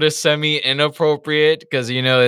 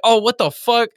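outraged character; 8 semitones higher, 4 dB louder than usual. Retold or imitated. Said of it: "And Kenya's like".

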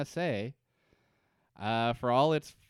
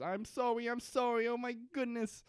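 high, whiny mock apology; panicked Ben; 12 semitones higher than usual. Ben cowering before his angry daughter, squeaky and frantic. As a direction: beg forgiveness in a squeaky panic. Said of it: "And, and Ben says".

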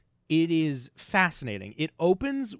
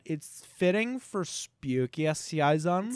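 imitating Californian accent; much slower than usual. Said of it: "that shitty accent from the Californians".

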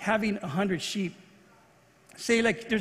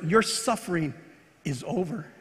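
tender; 3 semitones lower than usual. Retold or imitated. Jesus's parting words, tender.

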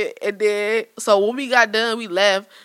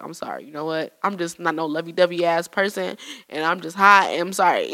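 retold apology; 5 semitones lower, 3 dB quieter than usual. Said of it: "I felt bad".

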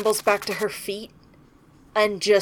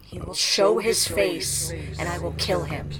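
rough voice; 2 semitones lower than usual. Acted. Susie vows to kill the wolf, in a rough voice. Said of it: "very rough voice".

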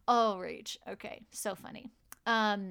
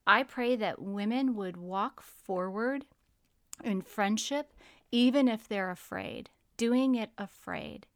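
prayer. Acted. Prayer continues.

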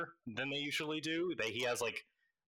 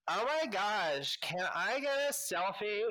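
put-on high, gushing teenage fan voice; starstruck teen girl; 9 semitones higher than usual. Game master voicing a teen girl begging for a selfie, high gushing fan voice. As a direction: squeal it like a fan spotting a celebrity. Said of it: "and she's like".

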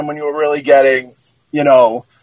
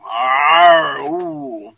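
lion growl. Pretend. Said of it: "Sounded more like a pirate".

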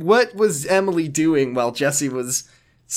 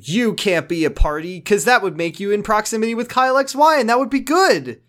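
higher, rising agitated rant; mock scolding scream; 7 semitones higher than usual. Emily berates Jesse at the dance, mild mock scream. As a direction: climb in pitch as the retold rant builds. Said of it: "she scream at Jesse".

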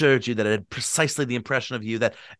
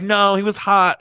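insistent; 8 semitones higher, 5 dB louder than usual. Retold or imitated. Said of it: "But you're like".

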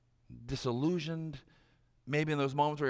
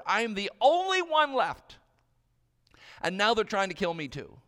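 raised voice, louder and urgent; impassioned plea; 5 dB louder than usual. Acted. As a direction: plead your case loudly to God. Acted prophet's plea to God.

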